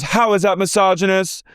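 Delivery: incredulous question; high parody; imitating a castmate. Mimicking castmate.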